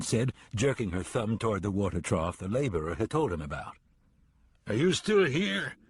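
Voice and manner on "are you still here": high, slow shout at the horse. A narrator's reading. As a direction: yell it up high and drawn out. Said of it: "Toller shouted at the horse".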